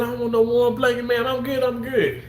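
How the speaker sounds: high, light voice as the patient brushes off the blanket; quoting the patient. Retold or imitated. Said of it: "I said".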